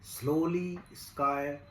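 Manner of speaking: slow, measured recital with long pauses between phrases; poem recitation. Acted. Recites his own poem.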